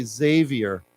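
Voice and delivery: "Xavier" starting with a Z sound; "Xavier" opening on a buzzed Z; Z pronunciation. Shown as a demonstration. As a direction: say "Xavier" as ZAY-vee-er. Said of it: "It's pronounced with a Z".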